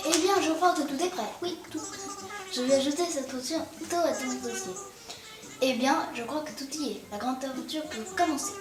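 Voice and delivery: lightly voiced friendly guide; cheerful game character voice. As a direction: read the guide's lines brightly.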